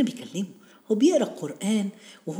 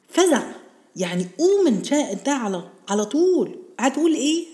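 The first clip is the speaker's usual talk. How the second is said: rousing call; 9 semitones higher, 4 dB louder than usual. Real, not acted. Urging listeners against fear.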